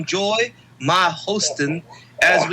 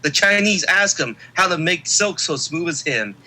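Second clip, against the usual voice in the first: big wrestling hype intro; hype announcer. Acted. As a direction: sell him like a champion.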